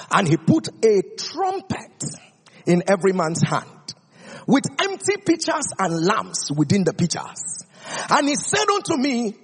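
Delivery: measured, formal Bible reading; scripture reading. Acted. Preacher reading the Bible to the church, measured and formal. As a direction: read the passage aloud to the congregation.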